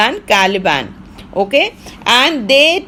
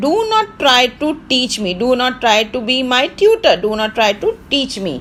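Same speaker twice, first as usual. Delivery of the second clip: mild scolding; much faster than usual. Acted. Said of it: "he is scolding".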